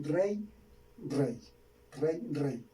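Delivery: rey said alike each time, a plain diphthong ending in an i sound; rey repetido igual, con la y final como i; same rey repeated. Shown as a demonstration. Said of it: "no van a saber en cuál de las dos pronunciaciones".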